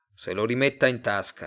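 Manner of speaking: ordinary delivery, nothing marked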